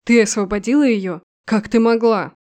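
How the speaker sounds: громкий яростный упрёк; бросить обвинение, задыхаясь от злости; сдавленная ярость. Acted. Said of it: "сдавленный от ярости". (генерал в ярости на невесту, громко)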